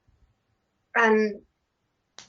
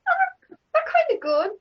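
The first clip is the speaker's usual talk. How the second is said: grudging self-praise; 3 dB louder than usual. Retold or imitated. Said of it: "you're actually going".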